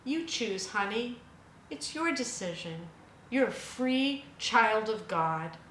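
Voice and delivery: a hint of a kind fatherly God; gentle and tender. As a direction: speak like a loving parent to a child. Voicing God's gentle words.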